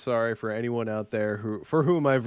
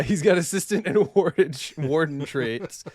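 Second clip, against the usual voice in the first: put-on Southern accent; 4 semitones higher, 3 dB louder than usual. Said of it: "a bad Southern accent".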